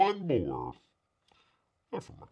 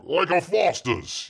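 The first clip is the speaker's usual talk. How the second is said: mock Australian accent; 5 semitones higher, slower than usual. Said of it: "do this in the accent".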